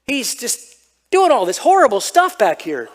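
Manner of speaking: put-on high, pleading voice of a kid complaining to Dad; whiny kid tattling. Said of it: "I'm like".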